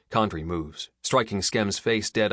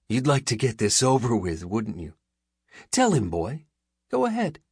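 goading villain; 5 semitones higher, 4 dB louder than usual. A narrator's reading. Skem goads the hostage.

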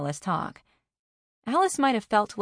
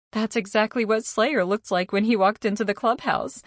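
higher, amused tone; lightly amused, pitched up; laughing; 4 semitones higher, 4 dB louder than usual. A narrator's reading. Alice enjoys Carney's shock at the news, lightly laughing. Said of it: "Alice laughed".

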